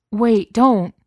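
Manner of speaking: high, loud urgent warning; frantic. A narrator's reading. Beast stopping Cook touching the gate, frantic. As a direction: cry out to stop him. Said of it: "the beast said frantically".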